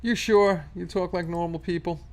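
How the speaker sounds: high, mock-doubtful question; teasing disbelief. Teasing a chatter's claim.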